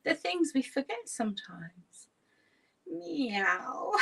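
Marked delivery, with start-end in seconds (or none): 2.9-3.9 high rising meow; playful cat meow. Pretend. Laughter yoga teacher leading cat stretches, high playful meow. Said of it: "pretend to be a cat".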